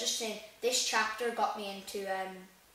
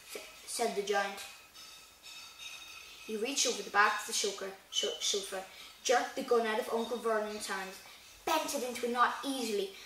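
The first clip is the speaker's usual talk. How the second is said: reading the book aloud, evenly; steady storybook narration; story reading. Acted. Reads chapter aloud in vlog.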